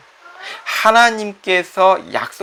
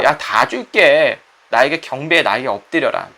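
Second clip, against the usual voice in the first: commanding Satan; 2 semitones lower than usual. Acted. Satan demanding worship from Jesus, slow and commanding. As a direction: lure and command like the devil.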